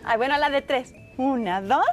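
late night call with crush. Acted. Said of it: "Estás enamorada".

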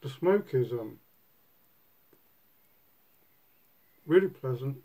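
talking around pipe stem; pipe in mouth. Real, not acted. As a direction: lips closed on stem. Seen 2: pipe stem held at lips throughout the labelled words.

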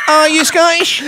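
high, loud mock astonishment; hammed-up shocked reaction; retold startled question. Retells the couple's startled reply.

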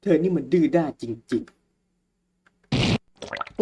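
very slow, drawn-out scolding; slow witch voice. Acted. Witch taunting the stubborn girl, very slow. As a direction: stretch every word like a gloating witch. Reads witch's line slowly.

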